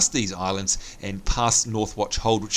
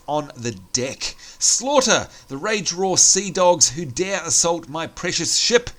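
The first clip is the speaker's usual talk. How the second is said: stern admiral; 4 semitones higher than usual. Acted. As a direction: give a grave rallying order. Reads admiral quest text in voice.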